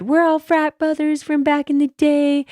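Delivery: high, hammed-up frat bro boast; mock frat bro. Frat guy bragging to the bartender, hammed-up bro voice. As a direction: puff it up like a proud old frat boy. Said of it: "they even said".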